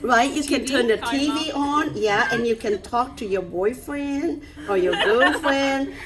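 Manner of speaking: chuckling through the words; laughing. Real, not acted. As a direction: laugh while you say it. Laughing about talking at home.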